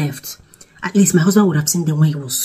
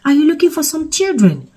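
police lady; 10 semitones higher than usual. Retold or imitated. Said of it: "She was like".

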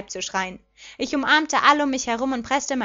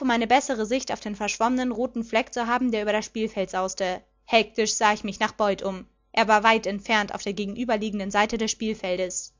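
plain reading voice

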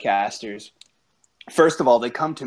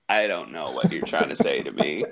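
baffled clerk; 8 semitones lower, 3 dB quieter than usual. Retold or imitated. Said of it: "'cause I was like".

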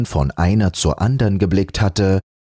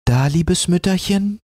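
higher, kindly offering; compassionate; 11 semitones higher than usual. A narrator's reading. Rotnas bringing soup to the old woman, compassionate. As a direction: comfort the poor old woman. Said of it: "sagte sie mitleidig".

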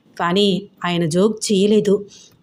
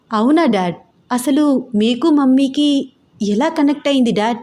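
daughter's voice; 4 semitones higher than usual. Acted.

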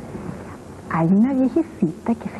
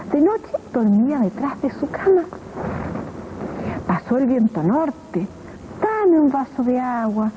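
put-on lively read-aloud for children, swooping pitch; storytelling voice. A narrator's reading. Narrator reading a children's tale to kids, lively storytelling. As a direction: tell it like a bedtime tale to little ones.

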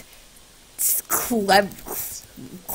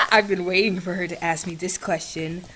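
excited; 3 dB quieter than usual. Real, not acted. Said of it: "'cause I'm so excited".

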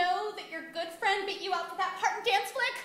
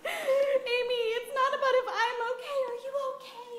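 mock-tearful worry for a friend; hammed-up weepy sympathy; tearful concern; 3 semitones higher than usual. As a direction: fuss over them, close to tears. Sketch friend fusses over host, tearful.

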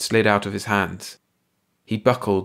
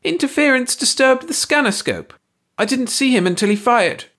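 squeaky alien voice; 5 dB louder than usual. A narrator's reading. Hersey explains himself.

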